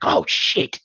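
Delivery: put-on light British accent, surprised; British voice, caught off guard. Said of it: "to get a British accent".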